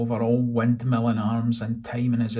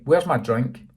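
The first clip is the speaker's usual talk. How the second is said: "Where's my drink?" louder, rising at the end; louder repeat; 6 dB louder than usual. Acted. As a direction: push "Where's" harder. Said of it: "repeated Joey".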